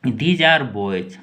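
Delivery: put-on These are boys said very slowly, word by word; slow, deliberate model sentence; slow dictation. Shown as a demonstration. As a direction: spell it out slowly for the class. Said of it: "next sentence पे चलते हैं".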